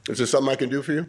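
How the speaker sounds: steady, self-assured offer; too confident. Shown as a demonstration. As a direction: ask as if you own the room. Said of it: "way too confident".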